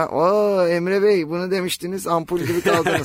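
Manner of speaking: teasing viewer. Retold or imitated.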